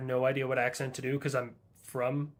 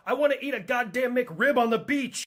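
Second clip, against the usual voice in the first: louder, higher rant; frustrierter Ausbruch; 8 semitones higher, 8 dB louder than usual. Acted. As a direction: complain loudly, voice jumping up. Stranded character rants about ruined vacation.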